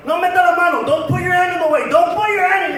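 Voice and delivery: mom's mock scolding. Mom about to spank with belt, scolding.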